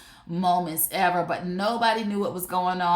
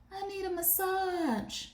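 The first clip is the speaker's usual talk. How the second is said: softer, higher plea for a massage; whiny partner request; 11 semitones higher, 7 dB quieter than usual. Retold or imitated. Partner begging for a massage, high soft plea. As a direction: beg sweetly, pitched up.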